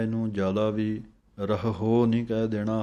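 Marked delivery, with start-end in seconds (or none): 1.4-2.0 ਰਹਹੁ with the ending drawn into a long o; overdone pronunciation. Shown as a demonstration. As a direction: overdo the last h of ਰਹਹੁ into hoo. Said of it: "ਹਾਹੇ ਹੌੜਾ ਲੱਗ ਜਾਵੇਗਾ". (ਰਹਹੁ ਦੇ ਅੰਤ ਵਿੱਚ ਹੌੜਾ ਲਾ ਕੇ)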